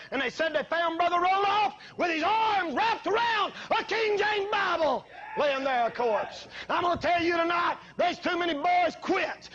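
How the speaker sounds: fiery revival shout; full-force preaching. Acted. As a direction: drive it home like a revival preacher.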